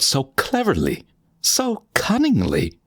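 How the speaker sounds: sly gloat. A narrator's reading. Gloating over hiding the body.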